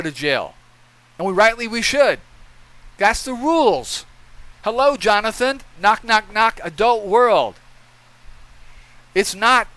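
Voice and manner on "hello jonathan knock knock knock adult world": sarcastic. Real, not acted. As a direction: knock on his head with scorn. Sarcastic wake-up call.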